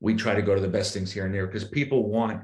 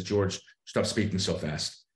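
slow, lowered inner voice; slow self-reminder; 3 semitones lower, 4 dB quieter, slower than usual. Acted. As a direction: ease right down, as if coaching yourself. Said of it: "internal thing that says".

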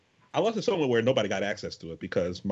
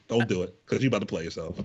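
mock British accent. Shown as a demonstration. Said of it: "Or is that Australian?".

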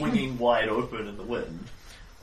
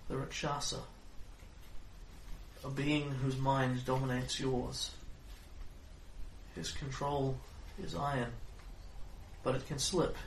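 fortune teller; 8 dB quieter than usual. Acted. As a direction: warn darkly in a hush. Fortune teller reading continues.

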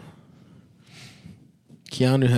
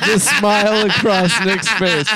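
laughing; 8 semitones higher than usual. Real, not acted.

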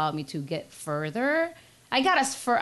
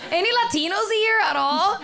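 loud, high director voice; artistic director impression; 9 semitones higher, 5 dB louder than usual. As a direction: call out to the room as the director. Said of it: "impersonating the artistic director".

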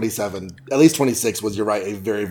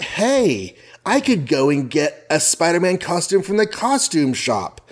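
excited Peter; 5 semitones higher, slower than usual. Retold or imitated. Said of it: "Peter's like".

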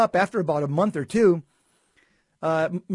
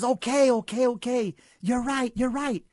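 giving in; 6 semitones higher than usual. Retold or imitated. Priest gives in after shaking.

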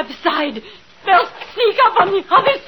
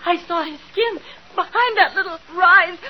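terrified; 4 semitones lower than usual. Acted. Frightened wife pleads with husband, terrified. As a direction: beg him to keep her safe.

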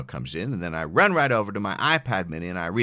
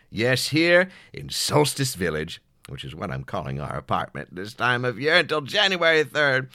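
hammed-up theatrical announcer; hammy stage actor; 2 semitones higher than usual. Hosting solstice show voice.

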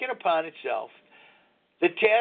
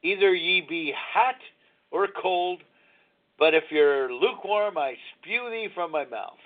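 scripture recitation. Retold or imitated. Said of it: "that says in the Bible".

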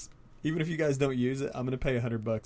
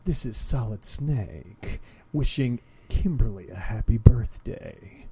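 lightly voiced gruff soldier; a hint of a growly commando; Solid Snake voice; 2 semitones lower than usual. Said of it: "he lays it on thick".

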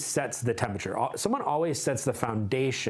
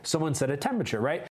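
ordinary delivery

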